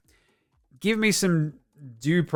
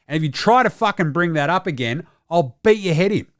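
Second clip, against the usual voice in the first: mock angry rant; 5 semitones higher, 4 dB louder than usual. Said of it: "came out from the start and went".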